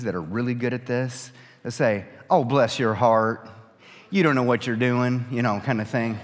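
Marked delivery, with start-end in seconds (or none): 2.3-5.3 sweet on top, cutting underneath; snarky Southern lady. Retold or imitated. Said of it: "snarky thing".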